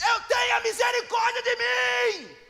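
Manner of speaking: high, slow, shouted plea; the blind man pleading at full voice; desperate cry. Retold or imitated. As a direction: cry out for mercy. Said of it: "ele grita mais alto".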